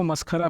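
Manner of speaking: मस्खरा with an aspirated ख; breathy ख in the middle of मस्खरा; maskhara with kh. Shown as a demonstration. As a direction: say मस्खरा with kh, not a plain k. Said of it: "ख लगाते हैं".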